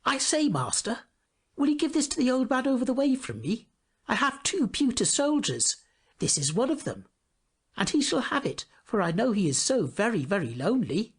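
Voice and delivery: put-on a child pleading earnestly with the errand man; eager little boy. A narrator's reading. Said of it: "he said to him".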